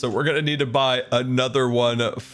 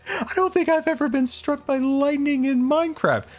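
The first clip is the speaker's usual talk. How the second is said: laughing disbelief. Real, not acted. Laughing after lightning strike.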